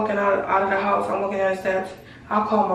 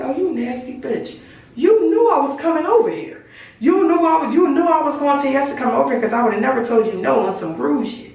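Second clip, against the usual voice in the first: furious yelling; 5 semitones higher than usual. Retold or imitated. Furious confrontation with friend.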